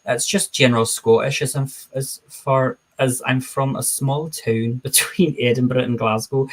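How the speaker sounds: put-on general Scottish accent, "town" said as "toon". Shown as a demonstration. Streamer demonstrates small-town Scottish for chat, in a put-on Scottish accent. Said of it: "let me do my amazing Scottish accent".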